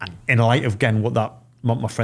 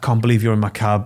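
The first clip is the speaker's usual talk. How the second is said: put-on, mock-tearful, in-tears delivery. Retelling a cab driver's words on recognizing his passenger, imitating him in tears. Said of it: "he's like in tears".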